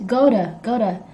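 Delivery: "to" as a soft duh after "go"; soft reduced "to". Shown as a demonstration. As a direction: run "go to" together as go-duh. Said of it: "It's soft".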